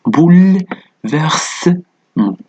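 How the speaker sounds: "بو، ل، فيرسمون" in high, separated chunks, boul-vers-ment; silent-e pronunciation. Shown as a demonstration. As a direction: demonstrate "بو، ل، فيرسمون" with a held, vowelless l. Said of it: "كأننا قد وضعنا هنا سكون".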